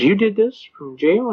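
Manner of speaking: incredulous judge. Retold or imitated. Judge questioning a jailed man about his motion, incredulous. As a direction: mimic a judge's mild disbelief.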